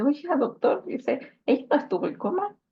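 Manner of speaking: a mother pressing the doctor with sudden conviction; mother's urgent insistence. Retold or imitated. Mother tells the doctor her daughter remembers, urgent and insistent. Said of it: "mi mamá le dice".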